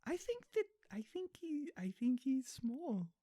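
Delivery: high, soft little voice; small timid voice. Pretend. Guessing at Bigfoot's size to the co-host, small high voice.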